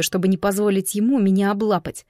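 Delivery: ordinary delivery, nothing marked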